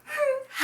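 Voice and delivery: short high snicker; a quick dismissive giggle before the reply; mocking laugh. Laughs before retold farewell.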